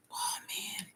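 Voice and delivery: soft breathy "oh, man"; whispered aside. Real, not acted. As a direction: mutter it under your breath. Mutters in a whisper.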